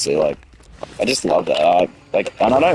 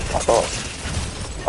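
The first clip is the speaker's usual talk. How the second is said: muttered fuck off; 3 semitones higher, 6 dB quieter than usual. Retold or imitated. Annoyed at the man.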